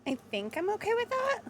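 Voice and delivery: slightly croaky, rough throat. Real, not acted. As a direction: talk through a frog in the throat. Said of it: "sorry if my voice is a little, like, croaky".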